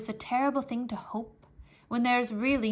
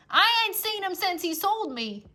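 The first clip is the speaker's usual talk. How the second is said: put-on higher, rough girl's voice; Mig's voice; 9 semitones higher, 6 dB louder than usual. Mig telling the soldier about her father, higher. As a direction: say it matter-of-factly, higher.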